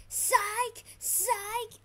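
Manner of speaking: high, punchy repeated yell; taunting shout. Real, not acted. Player mocking a rival mid-fight, taunting shout. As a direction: shout it out with each hit. Taunting while firing attacks.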